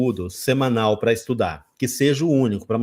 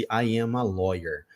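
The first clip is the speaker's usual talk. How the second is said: quieter slow "I am a lawyer"; stress on a; 3 semitones lower, 5 dB quieter, slower than usual. Shown as a demonstration. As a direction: softly repeat "I am a lawyer", slowly. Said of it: "Tem que ter esse". (repetição devagar)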